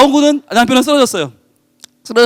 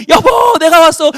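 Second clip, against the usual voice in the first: much higher, loud call into the house; 6 semitones higher, 4 dB louder, slower than usual. Acted. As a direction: burst in shouting for your wife. Husband bursts into burning house.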